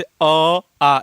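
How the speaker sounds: "अ" then "आ", each sounded out on its own; vowel demonstration. Shown as a demonstration. Teacher showing students where vowels are made, "अ, आ" sounded out separately. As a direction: sound out short "अ", then long "आ". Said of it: "बोल के देख लीजिए".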